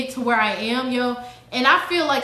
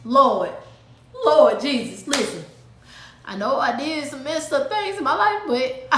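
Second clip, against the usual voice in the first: mock scared prayer; fearful prayer. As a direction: confess to the Lord with a nervous laugh. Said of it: "Immediate fear set into my soul".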